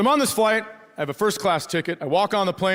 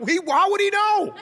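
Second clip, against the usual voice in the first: much higher, squeaky disbelief laughing; incredulous squeak; 14 semitones higher than usual. Retold or imitated. Comic mocks his own confusion in a high squeaky voice. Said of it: "And I was like".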